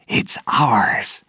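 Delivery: high, whispery, covetous voice; greedy. A narrator's reading. Pirate Pintel eyes the ship's sails, greedily. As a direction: relish it greedily, pitched high. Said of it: "he said greedily".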